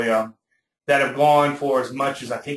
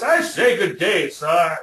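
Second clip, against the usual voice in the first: hammed-up British accent, high and slow; a playful British gentleman, drawn out; mock British voice; 5 semitones higher, slower than usual. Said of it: "I shout out in a British voice".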